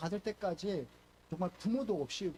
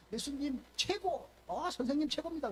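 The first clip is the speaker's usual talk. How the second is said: joyful praise; 5 semitones higher than usual. Retold or imitated. Peter praising Jesus over the catch, excited. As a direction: cheer him on like a thrilled fisherman. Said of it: "막 이렇게 좋아해야 되는데".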